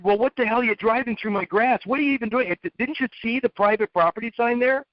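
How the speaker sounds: lightly acted exasperated scolding; mock scolding. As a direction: retell chewing out the kid, half-hearted. Scolding kid driving on his grass.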